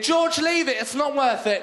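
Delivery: holding George back, not quite shouting; Judi Dench pleading. Retold or imitated. Judi Dench holds back George outside the Oscars, mock pleading. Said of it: "Judi Dench getting in".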